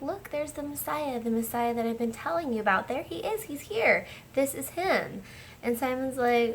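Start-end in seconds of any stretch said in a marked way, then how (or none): 0.0-5.2 higher-pitched eager announcement, quickening; excited disciple. Retold or imitated. Andrew telling Simon the Messiah has arrived, excited. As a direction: imitate an excited brother spotting the Messiah.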